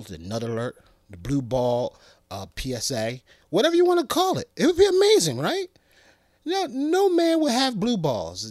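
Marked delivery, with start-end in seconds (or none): 3.5-8.5 high, loud, fast excited rant. Real, not acted. Hyping up his dream watch feature, excited high squeal. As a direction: squeal it like it's the best idea ever.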